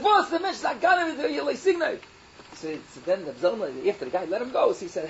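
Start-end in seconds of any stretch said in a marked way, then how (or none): 0.0-2.0 laughing quote. Retold or imitated. A woman laughing as she tells Reb Zalman off, raised voice.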